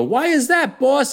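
high, eager Italian mobster lackey; mob underling. Acted. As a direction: ask it like a nervous goon in a mob accent. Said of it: "they go".

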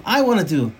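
long high, loud cry, easing slightly; retold congregation scream. Congregation answers the Rav's call to repent, screaming out. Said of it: "the entire kehillah would scream out".

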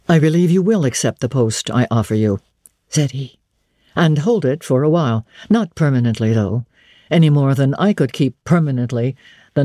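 lightly voiced stern pastor, measured and sure; a hint of a severe young vicar weighing her; understated solemn man's voice; grave clergyman. St. John voiced in narration.

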